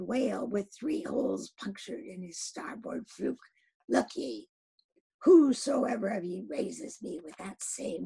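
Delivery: captain's rousing proclamation, fading to a hush. Acted. Captain offers the crew gold, exclaiming. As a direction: cry out the reward to the crew. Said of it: "with a high raised voice exclaiming".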